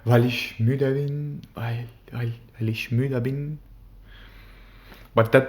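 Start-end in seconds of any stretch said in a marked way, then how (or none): 0.0-3.6 milk it like a tired drama queen; mock-tragic sighing complaint; overdramatic. Shown as a demonstration.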